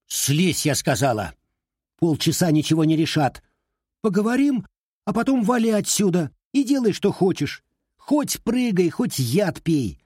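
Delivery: high, loud barked orders; angry friend barking her off the windowsill. A narrator's reading. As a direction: bark commands at her. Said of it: "Митрофанова рявкнула".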